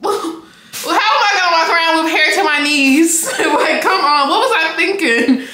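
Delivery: laughing through the words. Real, not acted. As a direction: giggle while asking. Laughing at hair to knees.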